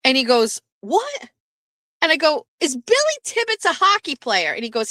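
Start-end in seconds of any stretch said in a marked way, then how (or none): 0.8-1.3 very high, questioning yelp; imitated call back. Jeff answering from downstairs, imitated puzzled call back. 2.6-4.5 high-pitched re-enacted question; calling out. Wife checking with Jeff about the streamer, calling out.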